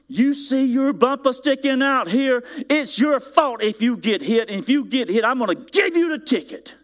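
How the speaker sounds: high-pitched yelling security guard impression; imitated yelling. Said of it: "he is yelling at me".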